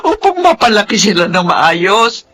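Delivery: tearful, shouting sobs of despair; crying despair. Acted. Mother tells her brother about her daughter's suicide attempt, crying. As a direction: wail out her failure as a mother.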